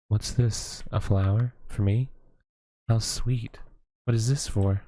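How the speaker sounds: a lightly voiced kindly witch, amused; gentle witch. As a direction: witch greeting the little scarecrow boy, lightly voiced. Witch speaks to scarecrow boy.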